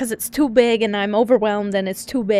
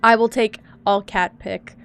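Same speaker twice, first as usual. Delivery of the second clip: bonk brain; 2 semitones lower than usual. Pretend. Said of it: "bonk brain now".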